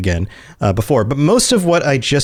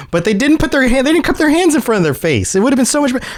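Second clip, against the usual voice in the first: animated; 12 semitones higher, faster than usual. Real, not acted. Excited critique of someone's Bane accent.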